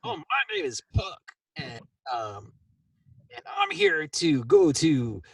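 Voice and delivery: Puck acting tough; a touch of swagger; mock giant tongue. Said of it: "As, and".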